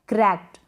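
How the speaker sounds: क्रैक्ड as "krekt", with a faint T; voiceless ending. Shown as a demonstration. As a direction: say क्रैक्ड ending in a small unvoiced t. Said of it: "ट voiceless है".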